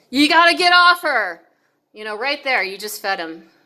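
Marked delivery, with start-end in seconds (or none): 0.1-1.4 sudden loud yell, pitched up. Quoting the listener's own sudden words back to them, retelling a yell. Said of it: "suddenly you're yelling just like him".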